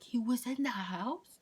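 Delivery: high, slow disbelieving question; imitating incredulous mom. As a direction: draw it out like a shocked mother. Mom's shocked question, retold.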